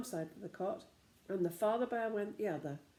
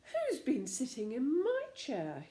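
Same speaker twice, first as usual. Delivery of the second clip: angry growl; 5 semitones higher, 4 dB louder than usual. A narrator's reading. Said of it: "the father bear gave an angry growl".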